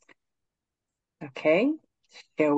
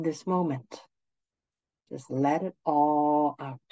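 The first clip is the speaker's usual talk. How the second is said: guided meditation; 4 dB quieter than usual. Acted. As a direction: ease them gently into stillness.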